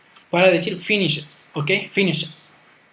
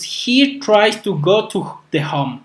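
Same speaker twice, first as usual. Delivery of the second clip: slow, careful classroom reading of the example; deliberate teacher demo pace; slow model sentence; much slower than usual. Shown as a demonstration. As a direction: read it out slowly so students can follow. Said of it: "teacher models example sentence".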